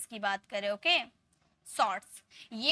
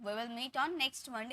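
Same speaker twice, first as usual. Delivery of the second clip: slow, quieter second reading; slow, softer repeat; 5 dB quieter, much slower than usual. Shown as a demonstration. Teacher repeats the quiz sentence more softly. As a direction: repeat it slowly and more gently. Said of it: "इसमें क्या mistake है".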